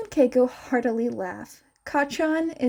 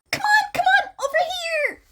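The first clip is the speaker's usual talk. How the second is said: high, loud call; shouting across the room; 3 dB louder, much faster than usual. Acted. Mei calling friends across the lab, high and loud. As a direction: call them over from the corner. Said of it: "Mei shouts to them".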